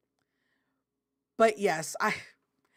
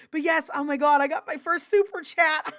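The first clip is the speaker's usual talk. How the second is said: laughing; 6 semitones higher, 4 dB louder than usual. Real, not acted. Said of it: "I'm really excited".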